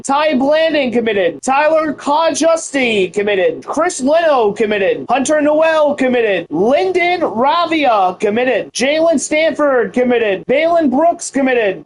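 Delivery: each name drawn out, then committed; slow recruiting announcement. Acted. Streamer announces each recruit slowly to viewers. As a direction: read each signing like a big reveal.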